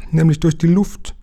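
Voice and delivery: put-on high, eager boyish call. A narrator's reading. Jim explains their way in, high eager call. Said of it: "rief jetzt Jim".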